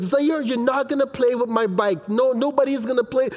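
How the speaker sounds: lightly voiced little girl warning a brother; excited, possessive daughter. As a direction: mimic a kid laying claim to a toy. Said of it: "she's so excited".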